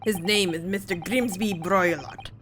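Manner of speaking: slow mock Russian name drop; bad Russian accent. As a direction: announce the name slowly in a hammed-up Russian accent. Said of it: "my very bad Russian attempt".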